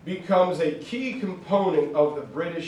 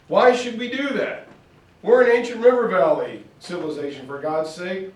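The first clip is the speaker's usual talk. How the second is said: indignant Indian objector; 4 semitones higher, 3 dB louder than usual. Retold or imitated. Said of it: "Others said".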